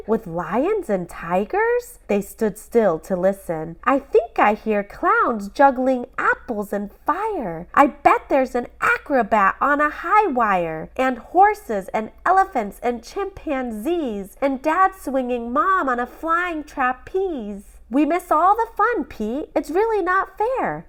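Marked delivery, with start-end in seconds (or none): 3.8-17.8 put-on high, eager imagining kid; excited boy. Boy tells his teddy about the circus, high and eager. 17.9-20.9 put-on high, fast complaining kid; sulky boy. Boy grumbles to his teddy, high and fast. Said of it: "Sam said".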